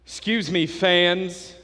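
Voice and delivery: slow, booming PA announcer voice, drawn out; stadium announcer. Retold or imitated. Pastor imitating stadium announcer to congregation, slow booming PA voice. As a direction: mimic the stadium PA telling fans to stay off. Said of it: "The P A announcer comes on and he goes".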